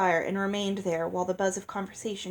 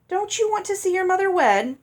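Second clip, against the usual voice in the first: raised questioning; 10 semitones higher, 6 dB louder than usual. A narrator's reading. Ella to Olive.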